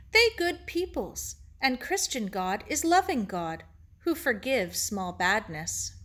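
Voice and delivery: lightly voiced Japanese-accented sage; gentle teacher Ito. Ito explains heaven to Sarah, gently thoughtful. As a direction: explain patiently in short, separated phrases.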